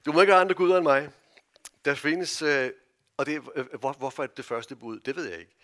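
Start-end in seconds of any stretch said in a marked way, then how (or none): 0.0-1.1 commandment called out loud and high to wake the congregation; loud, emphatic recital. Shown as a demonstration. Preacher rouses a sleepy congregation: loud, emphatic recital. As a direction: belt it out so the sleepy adults join in. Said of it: "Sover I?".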